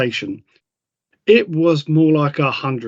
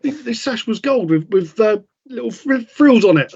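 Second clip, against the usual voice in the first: mock excited Claire; 6 semitones higher than usual. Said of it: "quoting Claire".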